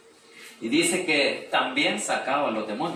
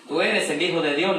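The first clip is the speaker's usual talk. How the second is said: demons crying out; 6 semitones higher, 8 dB louder than usual. A narrator's reading. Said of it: "le dijeron los demonios".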